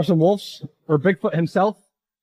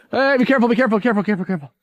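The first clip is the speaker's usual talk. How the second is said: worried calling out; 5 semitones higher, much faster than usual. Real, not acted. Friend slipping on steep slope.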